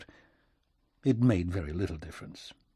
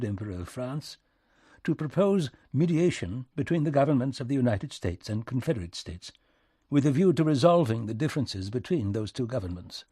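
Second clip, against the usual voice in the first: lightly voiced diplomat, measured and courteous; a hint of stiff British formality; formal British envoy. British envoy delivers formal message.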